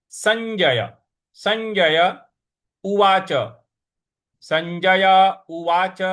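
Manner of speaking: संजय उवाच with ज then य clear; Sanjay pronunciation. Shown as a demonstration. Teacher models संजय उवाच. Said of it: "इया का उच्चारण होगा ज और फिर य".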